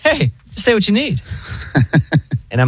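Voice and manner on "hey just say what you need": high, breezy AI operator voice; chill robot voice. Retold or imitated. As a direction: mimic a super relaxed phone bot. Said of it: "the robot voice is, like, so chill".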